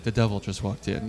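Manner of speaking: flat, unchanging pitch; monotone voice. Retold or imitated. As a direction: say it with zero alarm. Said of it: "Like, the same".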